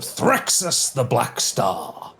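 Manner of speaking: slow, solemn villain name; grand self-introduction. Acted. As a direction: announce the name with weight. Knight names himself, slowly.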